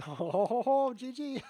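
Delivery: high, loud laughter through the words; gleeful laugh on winning the game; laughing win. Real, not acted. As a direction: cackle it out with real delight.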